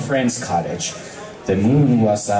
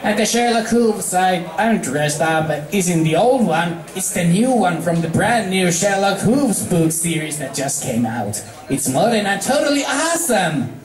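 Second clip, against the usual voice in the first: filly voice; 5 semitones higher than usual. Acted. Scootaloo voiced character.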